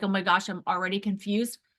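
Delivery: normal talking voice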